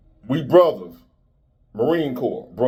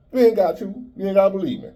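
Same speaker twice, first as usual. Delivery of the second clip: mock high taunt; 8 semitones higher, much faster than usual.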